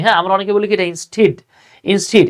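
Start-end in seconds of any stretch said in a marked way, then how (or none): 0.9-1.3 "instead" said as in-steed; common mispronunciation. Shown as a demonstration. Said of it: "এটার উচ্চারণ আমরা অনেকে ভুল করি". 1.8-2.2 "instead" said as in-steed; common mispronunciation. Shown as a demonstration. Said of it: "এটা কিন্তু instead না".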